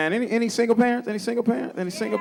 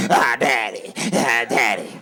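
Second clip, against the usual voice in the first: whiny son. Retold or imitated. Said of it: "That's how it sounded to me".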